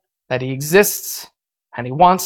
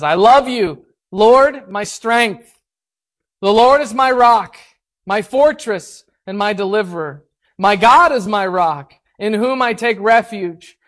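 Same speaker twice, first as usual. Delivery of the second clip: higher, solemn psalm reading; scripture reading; 4 semitones higher than usual. Acted. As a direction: read it as a proclamation. Reads the psalm aloud.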